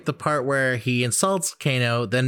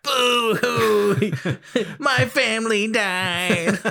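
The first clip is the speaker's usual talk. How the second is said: high, slow mock sobbing; hammed-up blubbering; fake crying; 9 semitones higher, much slower than usual. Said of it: "You sound like just a confused dog".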